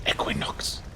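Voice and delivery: breathy dramatic whisper. Retold or imitated. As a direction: whisper it like a TV show title. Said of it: "in, uh, a whispered voice".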